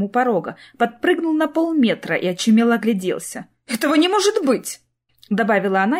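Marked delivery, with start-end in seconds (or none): 3.7-4.8 high, furious outburst. A narrator's reading. Clara raging over the ruined plan, furious. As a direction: spit it out through gritted teeth. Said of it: "яростно поскрежетав зубами".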